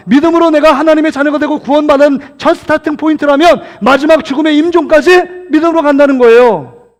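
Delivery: emphatic preacher expounding a verse; forceful preaching. Real, not acted. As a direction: proclaim the scripture and drive it home.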